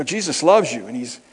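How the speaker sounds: lightly re-preach the invitation with fervour; mildly impassioned outreach preaching; preaching to visitors. Retold or imitated. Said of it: "But you do have to say".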